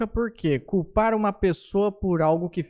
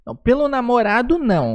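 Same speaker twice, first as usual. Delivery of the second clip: louder, higher objection; real protest; 6 semitones higher, 6 dB louder than usual. Real, not acted. Host rejecting falling for a friend's boyfriend, loud protest. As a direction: object loudly to the suggestion. Man objects to the card's wording.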